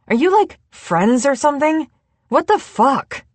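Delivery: rising into shocked delight; excited disbelief. A narrator's reading. London grilling Julie about her secret, excited disbelief.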